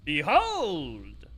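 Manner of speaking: elevated, hammy villain monologue; twee villain voice. Acted. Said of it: "the elevated, like, twee villain voice".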